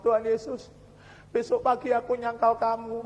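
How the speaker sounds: hushed, understated plea of a worn-out prisoner; imitated tearful prayer. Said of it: "Nangis dia".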